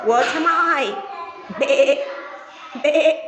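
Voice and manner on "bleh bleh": sheep bleat. Pretend. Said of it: "and a sheep".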